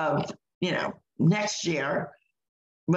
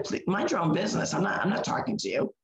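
polite; faster than usual. Retold or imitated. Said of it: "in a very polite way".

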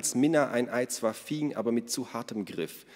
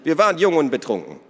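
laughing; 8 semitones higher, 9 dB louder than usual. Acted. Minna laughing about their youth.

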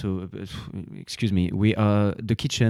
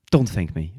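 said through a laugh; 4 dB louder than usual. Acted. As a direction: laugh it off warmly. Laughing waiter brushing off thanks.

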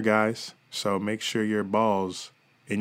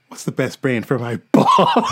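laughing; 2 semitones higher, 7 dB louder than usual. Pretend. Mock mirror rhyme, laughing.

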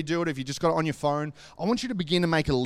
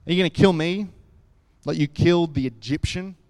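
defiant retort. Retold or imitated. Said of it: "He shot back".

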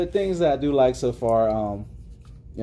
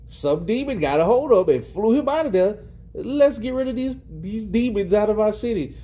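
mock preacher; 8 semitones higher than usual. Voicing townsfolk blaming demons.

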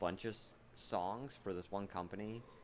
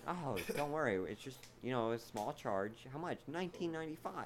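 infomercial; 5 semitones higher than usual. Pretend. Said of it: "mock ad seller voice".

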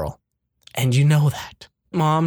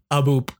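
a little spoken boop; phone hang up click. Shown as a demonstration. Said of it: "That's my hang up noise".

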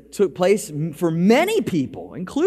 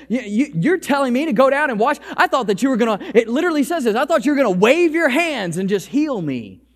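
angry retort; 5 semitones higher, faster than usual. Retold or imitated. A sermon retelling of an angry general. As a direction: act out the general's affront. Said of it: "He gets angry and he says".

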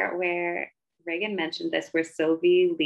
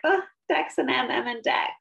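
high, aching sigh over the couple, fading to a whisper; swooning heartbreak; 6 semitones higher than usual. Retold or imitated. A fan sighing over the ending, heartbroken and tender. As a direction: gush like your heart is breaking for them. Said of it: "I'm always like".

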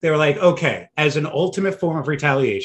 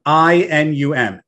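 spelled out; 5 dB louder, slower than usual. Shown as a demonstration. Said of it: "spelling it out".

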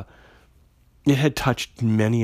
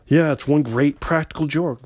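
dry, mocking sarcasm, a bit louder; very sarcastic; 4 semitones higher, 4 dB louder than usual. Roberto mocking the cop's disbelief, loud and sarcastic. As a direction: sneer it back as if it's obviously a joke. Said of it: "very sarcastic".

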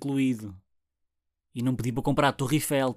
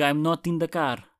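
mock bad English accent; slower than usual. Shown as a demonstration. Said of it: "Eu não digo".

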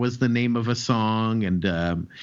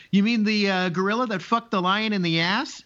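smug fake guard; 8 semitones higher than usual. Gorilla posing as a guard.

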